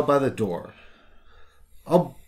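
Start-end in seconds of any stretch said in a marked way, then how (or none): 1.9-2.2 hammed-up dwarf brogue, higher; a rough dwarven accent for the baker; thick Dunwar accent. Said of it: "with a thick Dunwar accent".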